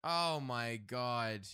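real dismay, drawn out. Real, not acted. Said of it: "I thought I was recording".

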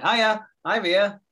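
high, loud, drawn-out hello; mock greeting. Acting out husband greeting wife.

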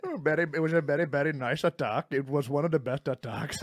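mock Indian accent with Trump's boasting; lightly hammed Indian-accented Trump, laughing. Comic parodying a boastful president, Indian-accented Trump. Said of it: "Is that Indian Trump?".

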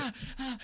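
light mock "ah, ah" of pain; mock pained cries. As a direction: imitate someone yelping at pepper spray. Retold man being pepper-sprayed.

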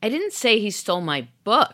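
"book" punched; "book" stressed, rest even. Shown as a demonstration. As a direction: hit the word "book". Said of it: "stress the subsequent word".

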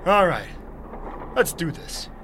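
psyched up to go; pumped up. Acted. Hero psyching up.

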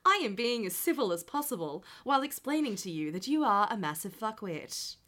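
brisk, polite agent voice; sweetly civil through gritted patience; customer service voice. Retold or imitated. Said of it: "I am good at that voice".

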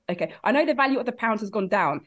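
ordinary talk, nothing marked

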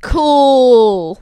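flat, unimpressed cool. Shown as a demonstration. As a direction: say it like you don't care. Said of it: "that's the tone I meant".

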